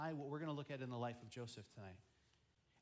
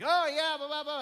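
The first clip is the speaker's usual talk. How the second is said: loud, high-pitched mock chatter; boisterous group chatter; 13 semitones higher, 16 dB louder than usual. People in a big group chatting away, loud and high. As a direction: blare it out like a noisy crowd. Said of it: "we're in a big group and they're like".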